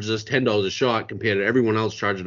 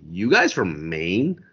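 put-on slow, lower voice in a Maine accent; Maine accent bartender; 6 semitones lower, slower than usual. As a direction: ask it slowly in a thick Maine accent. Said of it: "She goes".

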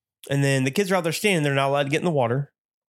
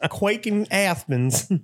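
slow, dopey meme voice; 7 semitones higher, much slower than usual. Pretend. Meme voice continues.

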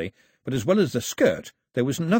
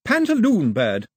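Daphne naming it; 8 semitones higher, 6 dB louder than usual. A narrator's reading.

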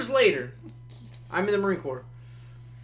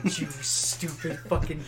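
slow mock insult; much slower than usual. His inner retort to the ex.

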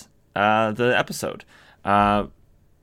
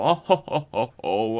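mock group laughter; 2 semitones higher than usual. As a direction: imitate everybody laughing, clearly put on. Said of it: "and everybody laughs".

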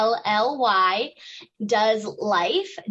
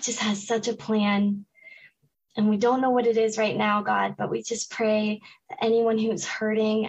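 prayer; 2 semitones lower than usual. Acted. Guest prays over listeners.

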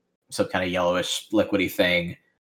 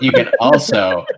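laughing through the words; 2 semitones higher, 6 dB louder than usual. Real, not acted. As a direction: giggle while saying it. GM laughing at own joke.

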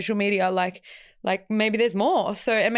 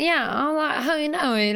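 higher-pitched, lightly put-on UK accent; mock UK accent; 6 semitones higher than usual. Podcaster imagining herself back from the UK, mock UK accent. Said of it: "like, a U K accent".

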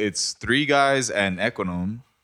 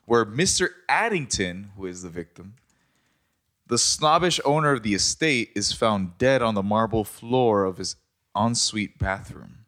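dramatic reading. Acted. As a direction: narrator voice, reading a mystery intro. Reads murder mystery intro.

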